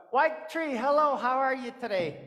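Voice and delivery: cheerful greeting. Acted. Coyote greets his old friend the tree, cheerfully.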